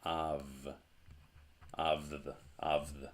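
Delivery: av and avth with a buzzing v; voiced av before th. Shown as a demonstration. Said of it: "this would be pronounced".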